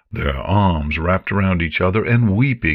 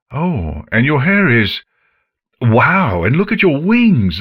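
louder, tumbling broken phrases; excited stammering; 4 semitones higher, 5 dB louder than usual. Acted. Father stammering in wonder at his daughter's cutie mark. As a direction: stumble over words in amazement. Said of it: "her father's stammering".

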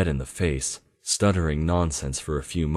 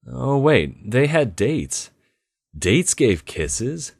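higher, louder eager realization; excited; 8 semitones higher, 5 dB louder, slower than usual. Acted. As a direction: perk up with sudden hope.

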